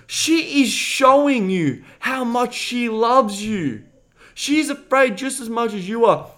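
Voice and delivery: high, loud, slowed-down insistence; emphatic scolding. Retold or imitated. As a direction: drum it into him word by word. Acts out scolding the reluctant friend.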